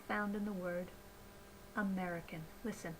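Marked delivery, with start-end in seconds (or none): 1.8-2.4 "American" with a short, lax "i" after "mer"; unstressed "ih" in the middle of "American"; lowered I sound. Shown as a demonstration. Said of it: "the lowered I sound".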